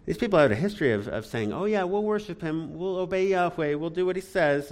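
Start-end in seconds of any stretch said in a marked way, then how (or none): 1.5-4.7 mock-agreeable, a little higher pitched; lightly mocking eager agreement; glib promise. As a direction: imitate people glibly promising obedience. Mimicking people's empty promises.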